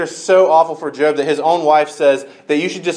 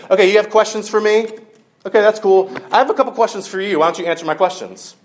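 1 sassy God; 6 semitones higher, faster than usual. Retold or imitated. God retorts to Job's questions.

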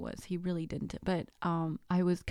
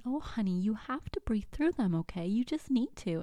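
sweet, patronizing higher voice; condescending; 4 semitones higher than usual. Retold or imitated. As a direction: talk down to her like a child. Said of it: "very condescendingly".

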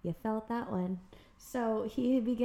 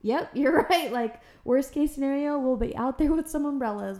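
laughing along; 4 semitones higher, 5 dB louder than usual. Retold or imitated. Laughing agreement in retold chat.

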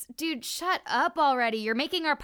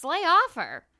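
firm shout; 5 semitones higher, 8 dB louder than usual. Acted. Assistant defends the girl.

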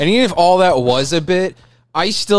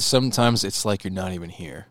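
movie line quote; 7 semitones lower, 8 dB quieter than usual. Acted. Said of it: "reference A Few Good Men".

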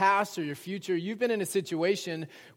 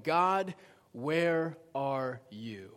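slow, drawn-out searching question; pleading with God; 3 semitones lower, 3 dB quieter, much slower than usual. Acted. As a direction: let the plea sink slowly lower. Voices believers' anguished plea to God.

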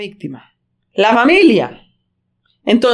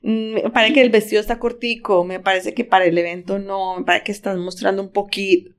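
tactful soft remark; 2 semitones lower, 5 dB quieter than usual. Retold or imitated. Tactful comment quoted.

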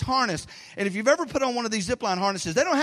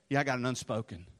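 low, much softer, hushed churchy tone; mock solemn; 9 semitones lower, 8 dB quieter than usual. Churchgoer at prayer meeting, mock solemn hush. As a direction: play the pious churchgoer, hamming it up.

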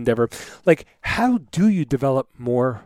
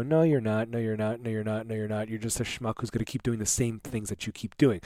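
starting plain, then softer and lower; fading inner voice; 4 semitones lower, 7 dB quieter than usual. Retold or imitated. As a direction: let the doubting voice fade away. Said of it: "And you go".

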